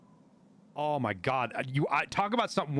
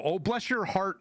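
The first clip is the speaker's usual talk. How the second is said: higher, catty faux-sweet quote; mock Southern sweetness; 6 semitones higher than usual. Rich Southern woman to a newcomer, mock-sweet condescension. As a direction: imitate a condescending Southern blonde. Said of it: "the cunty blondes and redheads".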